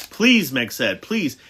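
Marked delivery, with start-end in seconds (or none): 0.1-0.5 high, loud plea; pleading. A narrator's reading. Meg begs them to let her go now, high and pleading. 1.0-1.4 pleading. A narrator's reading. Meg pleads again.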